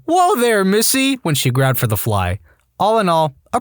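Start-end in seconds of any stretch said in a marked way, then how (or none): 0.1-1.2 high-pitched, startled protest; mock yell. A narrator's reading. Groggy patient stops spouse grabbing the fly, mock yell. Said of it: "and I yelled".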